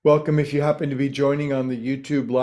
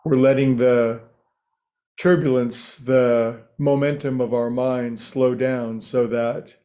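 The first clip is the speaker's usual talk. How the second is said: unhurried meditation teacher with long pauses between phrases; lightly held meditation-guide voice; guided meditation. Real, not acted. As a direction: ease listeners into stillness, phrase by phrase.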